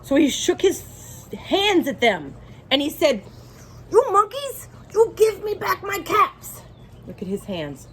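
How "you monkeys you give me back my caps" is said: higher, louder scolding of the monkeys; angry demand. Acted. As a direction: shake a finger and demand them back, raising the voice. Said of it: "This made the peddler angry".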